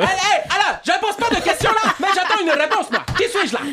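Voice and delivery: hammed-up African accent on the riddle; mock African accent. Host redoes the riddle in a mock African accent for Alain. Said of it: "version africaine".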